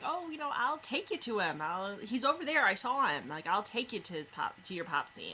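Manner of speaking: lightly voiced friendly lure; fake friendly. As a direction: sweet-talk a lost child into the car. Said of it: "trying to be all friendly".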